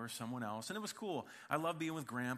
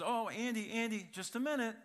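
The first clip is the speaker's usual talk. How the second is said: put-on higher, louder sweet grandma calling a toddler; 8 semitones higher, 3 dB louder than usual. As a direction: call the boy back like a kindly grandma.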